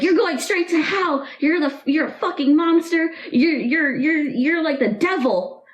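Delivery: mock scream at the grandchild; a retold furious grandma yelling. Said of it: "they were both screaming at me".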